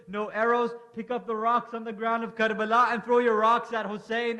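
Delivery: rally every soldier to attack; barked orders. Acted. Commander ordering the army.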